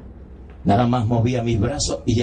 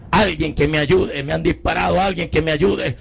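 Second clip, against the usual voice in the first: mild mock shouting from the car window, rising higher; begging for help through the window, a bit higher each line; retold cry for help; 5 semitones higher than usual. Wounded man calling from a car window, mild mock shout.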